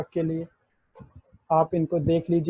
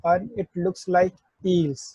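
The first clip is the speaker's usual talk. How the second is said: very slow, each word stretched; slow mnemonic; much slower than usual. Shown as a demonstration. Teacher giving the eel trick for ई, very slow. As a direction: drag out the eel memory line. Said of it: "दो lines".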